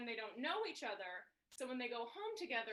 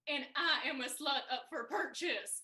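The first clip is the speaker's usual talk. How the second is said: slow, laughing through the words; panicked reply; 5 dB louder, slower than usual. Retold or imitated. Wife panicking in a bar role play, slow and laughing. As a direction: answer slowly while cracking up. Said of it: "So then I panicked".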